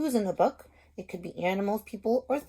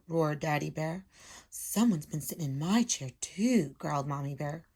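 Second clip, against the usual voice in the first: storybook read-aloud voice; lively picture-book reading; reading to children. Acted. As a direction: read it like a teacher to her class. Teacher reads story aloud.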